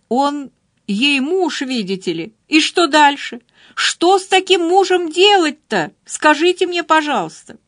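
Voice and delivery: Dolly rants scornfully about Laura's husband; heated rant. Acted. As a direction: scold her hotly over her husband. Dolly ranting at Laura about Brad.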